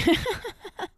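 high-pitched burst of laughter; real laugh. Real, not acted. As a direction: laugh out loud at your own remark. Laughs about her disagreeing friends.

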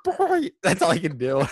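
squeezed duck voice. Shown as a demonstration. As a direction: push out a duck sound. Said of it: "Here we go".

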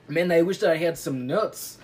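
badly faked French accent; clumsy French accent on the wish; Poirot. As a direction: attempt a French detective accent. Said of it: "Poirot was like".

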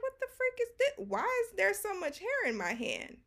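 high-pitched disbelief; retold shock. Finding too much hair in her hand, high acted shock.

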